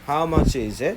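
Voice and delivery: "How much is it?" with is it run together; flowing model phrase for students to repeat; linked is it. Shown as a demonstration. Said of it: "그죠?".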